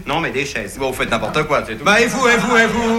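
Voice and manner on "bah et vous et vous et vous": high-pitched comic squabble; quarrelling retort. Acted. Accused partner returning the charge, high quarrelling retort. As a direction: throw it back high, insistently.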